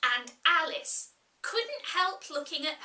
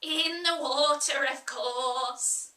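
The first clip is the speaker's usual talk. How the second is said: Sheep, gruff. Acted. Sheep answers.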